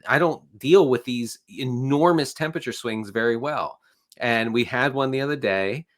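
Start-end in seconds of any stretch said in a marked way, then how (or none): 0.1-3.8 stuffy, congested voice. Real, not acted. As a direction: talk through a blocked nose. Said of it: "you can hear I'm congested".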